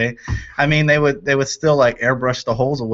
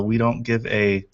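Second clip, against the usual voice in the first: slow, careful self-censored title; 2 semitones lower, slower than usual. Real, not acted. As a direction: draw out the cleaned-up title slowly. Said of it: "See how I said that".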